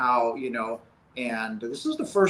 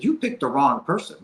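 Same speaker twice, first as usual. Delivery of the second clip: raised, higher voice, mock yell; louder, higher retold protest; retold yelling at God; 5 semitones higher, 4 dB louder than usual. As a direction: throw the accusation up at God, loud. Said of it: "kinda yelling at God".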